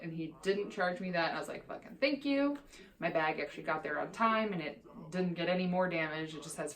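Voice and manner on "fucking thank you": grateful outburst. Retold or imitated. Grateful to the airline agent.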